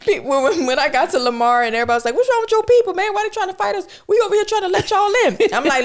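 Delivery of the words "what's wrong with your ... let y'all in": high-pitched, agitated imitation of complaining locals; indignant mock confrontation. Locals confronting a newcomer about her people, mock indignant. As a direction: throw the complaint out high and fast.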